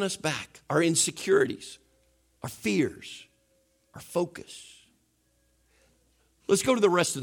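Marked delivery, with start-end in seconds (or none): 2.4-4.7 dropping to a hushed whisper; hushed, dying away; fading to a whisper. Real, not acted. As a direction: let "our focus" vanish into breath. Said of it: "trailing dramatic list".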